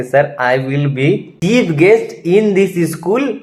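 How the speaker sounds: very slow, drawn-out cocky boast; boastful declaration. Retold or imitated. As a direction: puff yourself up and brag to the principal. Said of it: "ऐसे करके बढ़ा के बोल के आ गया". (घमंड से खींचकर बोलना)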